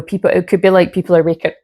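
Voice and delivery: talking through hiccups; hiccuping. Real, not acted. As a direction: hiccup mid-sentence, real. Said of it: "I'm burping, hiccuping".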